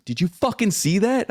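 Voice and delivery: high-pitched, incredulous question; retold excited outburst. Father re-enacts asking his son about the UFO, excited.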